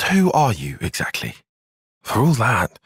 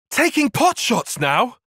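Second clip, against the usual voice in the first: indignant surprise; 12 semitones higher, slower than usual. Acted. Reacting to being attacked.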